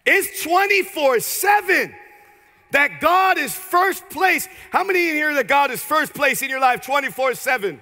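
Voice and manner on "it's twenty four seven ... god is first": preaching shout. Acted. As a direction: ring it out to the rafters. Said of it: "tell them".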